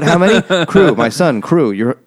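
high, loud exaggerated confusion; mock confusion. Nurse and Jeremy arguing about crew, high loud mock. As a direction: ham up the baffled back-and-forth.

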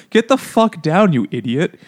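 exasperated mock holler; mock yell. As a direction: imitate yelling up at someone, dropping at the end. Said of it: "then they yell at her".

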